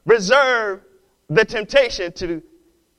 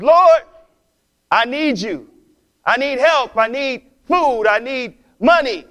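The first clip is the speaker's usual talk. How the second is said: pleading prayer; 4 semitones higher, 4 dB louder than usual. Retold or imitated. Old lady pleads to God.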